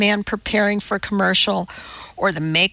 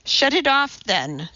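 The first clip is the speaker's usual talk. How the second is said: higher-pitched, restrained yell; 6 semitones higher than usual. A narrator's reading. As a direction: call back from another room without real volume. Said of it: "the little boy's mother yelled".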